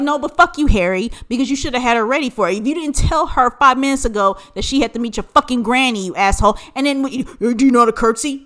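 loud, fast scolding of Harry; imagined telling-off. Pretend. Scolding Harry for springing granny on her, angry. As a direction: chew Harry out. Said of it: "my thing is like".

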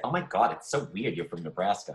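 put-on Long Island accent. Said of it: "the accent that you just did".

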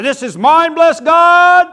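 mock clinging preacher, rising to a loud shout; hammed-up territorial pastor; possessive preacher. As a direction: pastor mocking a preacher who won't let go. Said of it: "I don't hold on to this pulpit".

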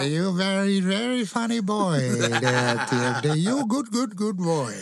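high, far-off put-on accent; Fuji imitation. Mister Fuji praising TMD, high put-on accent. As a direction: imitate the old Japanese manager's broken English.

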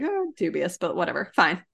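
dubious but letting it go; half-hearted whisper of resignation; mock grudging acceptance. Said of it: "I was like".

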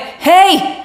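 high, out-of-nowhere call; sudden disembodied greeting. Retold or imitated. Showing a friend what clairaudience is like, high playful interjection. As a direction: pipe up suddenly as a stray voice. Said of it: "you're walking down the hallway and".

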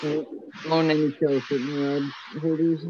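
covered microphone, muffled; muffled mic. Real, not acted. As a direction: voice dulled by a hand on the mic. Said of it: "You're covering the mic again".

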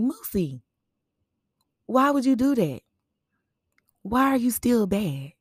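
high, loud teasing scold; mock scolding. Scolding little Moosey for being bad, high and teasing. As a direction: tease her like a big sister. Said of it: "And I was like".

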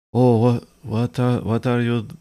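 put-on sleepy, mumbled French accent, slowed down; mock French accent. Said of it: "the most generic making fun of French people accent".

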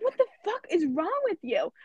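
high-pitched mock yell, no real volume; imitated angry yell. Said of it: "fucking yells at me".

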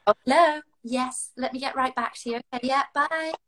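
put-on posh accent to northern family. Sisters hear her switch on calls, mock posh. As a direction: slip into a posh telephone manner. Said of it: "They'll say I'll be talking".

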